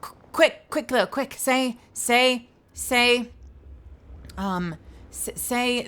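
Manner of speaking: high, stammered mock urgency; urgent pestering. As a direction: imitate an insistent fan demanding a line. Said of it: "they'll be in chat going like".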